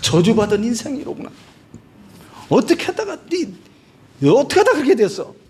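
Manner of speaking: mock cutting, contemptuous, condemning, scornful tone. Preaching about how others treated the sick beggar Lazarus: acting out scornful reproach. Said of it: "이렇게 하면서 비난하고 저주는 하지만".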